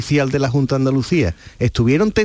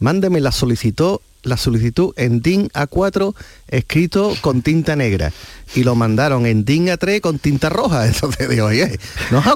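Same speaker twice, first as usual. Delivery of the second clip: plain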